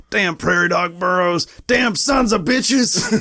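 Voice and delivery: high-pitched mock outburst, dragged out at the end; irrationally angry. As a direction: imitate an overblown movie rant. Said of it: "so irrationally angry".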